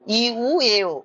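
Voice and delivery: ই, উ, এ, ও as bare vowel sounds; simplified vowel reading. Shown as a demonstration. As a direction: chant ই, উ, এ, ও one after another without letter names. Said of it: "এইভাবে উচ্চারণ করলে সুবিধা হয়". (শুধু ধ্বনিতে ই, উ, এ, ও বলা)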